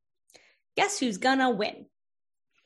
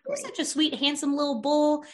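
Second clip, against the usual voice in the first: sweet talk; 3 semitones higher than usual. Acted. Client flattering an imagined bull, sweet talk.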